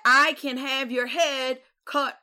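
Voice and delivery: high, slow threat, laughing through it; mock threat through laughter. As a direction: play the mock threat while cracking up. Tyrion threatening, retold by friend.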